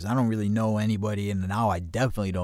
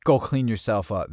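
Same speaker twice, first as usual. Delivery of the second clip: retold brisk order; 3 semitones higher, 6 dB louder than usual. Friend's first order to wash.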